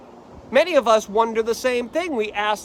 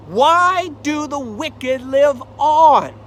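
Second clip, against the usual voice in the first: anguished cry; 3 semitones higher, 5 dB louder, slower than usual. Acted. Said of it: "Why does bad things happen".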